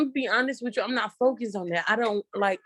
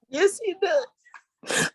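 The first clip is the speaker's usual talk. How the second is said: proud affirmation; 8 semitones higher, much slower than usual. Real, not acted. Mother affirming about her son.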